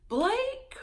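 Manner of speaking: whispery, rising name; hushed exclamation. Real, not acted. Host pausing over the way Blake talks, hushed and rising. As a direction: let the name rise in a half whisper.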